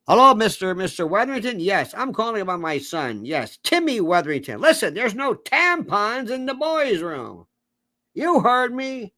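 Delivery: lightly acted complaining parent; indignant parent on phone. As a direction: play a parent phoning the school, rising to insistence. Acts parent phoning school to complain.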